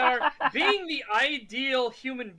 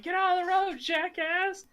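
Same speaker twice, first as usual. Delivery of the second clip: mock angry driver; 8 semitones higher than usual.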